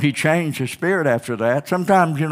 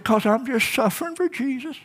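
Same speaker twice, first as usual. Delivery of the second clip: mock self-pity; 10 semitones higher, 4 dB quieter than usual. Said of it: "he's just crying".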